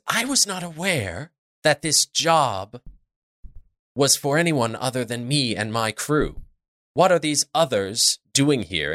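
stern captain voice. Acted.

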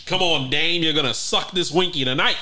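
put-on loud old-time gangster bravado; 1920s gangster voice. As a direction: play a swaggering 1920s hoodlum. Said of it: "That's how niggas in the twenties talk".

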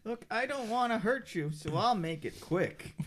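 very low, quiet threat; calm low menace; deep menacing voice. Acted. Carmichael threatens kid.

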